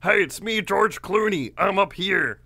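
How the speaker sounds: high, loud put-on celebrity voice; George Clooney impression. Goat Man luring her over as a celebrity, hammed-up impression. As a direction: call out high and loud, badly faked. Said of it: "doing impressions".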